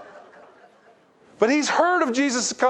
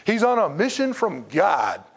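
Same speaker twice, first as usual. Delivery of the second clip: crowd shouting him down; 3 semitones higher than usual. Retold or imitated. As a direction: snap at him to shut up. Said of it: "everybody's like".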